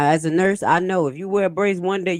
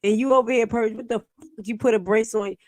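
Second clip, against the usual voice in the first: mock confrontation; 5 semitones higher, 4 dB louder than usual. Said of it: "That's when you gotta think like".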